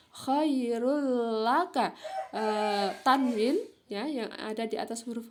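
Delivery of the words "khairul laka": KHAIRUL LAKA slow, with held double l; merged idgham reading. Shown as a demonstration. Teacher repeating the correct reading, slow and merged. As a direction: stretch the l joining KHAIRUL and LAKA. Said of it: "Ya, bacanya".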